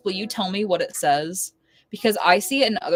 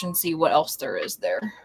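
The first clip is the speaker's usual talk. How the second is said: whisper; 6 semitones lower, 6 dB quieter, faster than usual. Real, not acted. Whispering aside.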